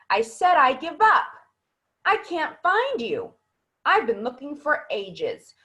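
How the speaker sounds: each question pitched high and slow; same high tone. Shown as a demonstration. Teacher mimics student's high, slow same-tone questions. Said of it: "my voice gets very high in tone".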